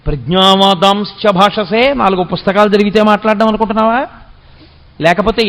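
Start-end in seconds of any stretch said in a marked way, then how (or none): 0.1-1.9 slow, rising hard on భాషసే; emphatic guru rebuke. Acted. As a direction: lecture it like a stern teacher. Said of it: "ఒక గురువు ఎలా మాట్లాడాలో అలా". (గురువులా ఒత్తి పలకడం)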